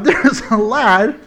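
lightly put-on Irish lilt; playful hint of an Irish accent. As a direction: repeat it with a touch of Irish. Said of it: "all of a sudden he sounds Irish".

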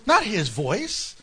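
'his' leaned on, slowly, as a contrast; slow correction, setting 'his' apart; stress on his. Shown as a demonstration. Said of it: "It didn't come from his voice".

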